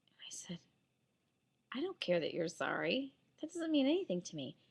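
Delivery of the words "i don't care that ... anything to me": cold quiet scolding. Retold or imitated. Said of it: "this is exactly how I was talking".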